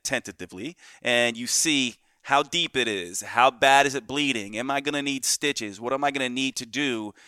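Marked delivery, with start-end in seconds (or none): 0.0-0.8 the word tentatively said softly and carefully; soft hesitant tentatively. Shown as a demonstration. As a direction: say tentatively gingerly, much softer. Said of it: "You tentatively look at it".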